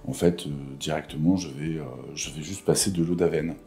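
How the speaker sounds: low creaky morning voice; vocal fry. Real, not acted. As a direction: croak it low, barely awake. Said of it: "ma voix du matin".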